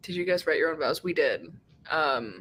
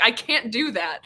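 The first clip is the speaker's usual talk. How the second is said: blurted out; 4 semitones higher, 4 dB louder than usual. Retold or imitated. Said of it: "I said it out loud".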